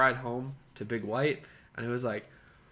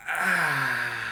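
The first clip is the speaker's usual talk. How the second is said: effortful groan. Retold or imitated. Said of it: "And I like to go".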